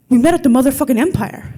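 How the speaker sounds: lightly voiced dumb thug. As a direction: insist like a dim thug. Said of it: "it's my dumb thug voice".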